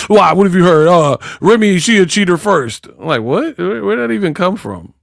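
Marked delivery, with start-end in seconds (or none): 0.1-2.9 higher-pitched comic protest; mock defensive. Answering whether a rapper is married, mock defensive. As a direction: imitate someone jumping to defend themselves. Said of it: "start over-explaining and defending".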